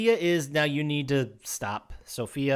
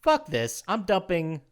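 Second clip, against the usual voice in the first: Sophia voice; 4 semitones higher than usual. Retold or imitated. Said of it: "realizes what's going on and says".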